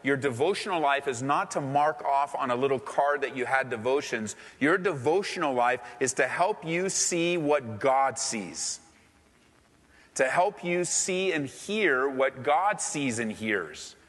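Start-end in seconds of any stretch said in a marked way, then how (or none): 4.6-13.9 slow emphatic. Real, not acted. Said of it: "repeats phrase slower".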